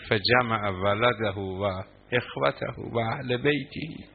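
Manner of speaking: drawn-out chanted Arabic; slow Arabic recitation. Acted. Preacher quoting the maqtal to the crowd, slow intoning. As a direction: intone it slowly like scripture.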